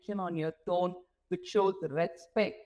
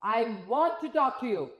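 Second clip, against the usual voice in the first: second take, different tone; 3 semitones higher, 3 dB louder than usual. Shown as a demonstration. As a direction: say it with a friendlier lift. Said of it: "It's the same sentence".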